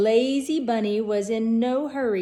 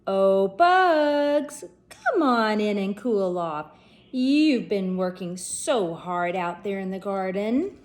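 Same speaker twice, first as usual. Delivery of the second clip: louder call from the window; 3 dB louder than usual. Acted. Elmer calling Bugs in from the window, louder. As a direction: call him in sweetly. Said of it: "went to the window and called".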